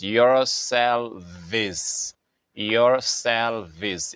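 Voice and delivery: "yourselves" said slowly with the plural ending sounded out; teacher's careful, drawn-out "yourselves"; stress on yourselves. Shown as a demonstration. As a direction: stretch out "yourselves" to mark the plural. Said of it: "it's not yourself".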